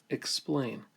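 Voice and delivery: "explain" with a long, full second vowel. Shown as a demonstration. Teacher shows students the long vowel in explain, long vowel. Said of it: "a long vowel".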